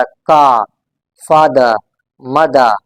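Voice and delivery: का, फादर, मदर ending in open vowels; silent final R. Shown as a demonstration. Teacher giving British examples, silent R. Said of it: "इसको हमने silent रखना होता है".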